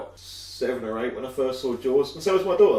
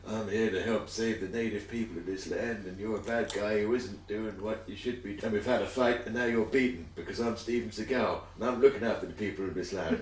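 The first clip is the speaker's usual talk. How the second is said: Steven Seagal impression; 2 semitones lower, 6 dB quieter than usual. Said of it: "give this fucking monologue".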